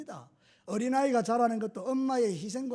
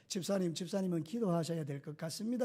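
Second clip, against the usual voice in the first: politely suggesting; 5 semitones lower, 9 dB quieter than usual. Retold or imitated. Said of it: "이렇게 청유형으로".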